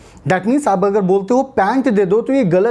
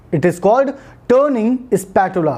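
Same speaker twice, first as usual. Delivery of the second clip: slow teaching line; much slower than usual. Shown as a demonstration. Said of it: "teaching a new word".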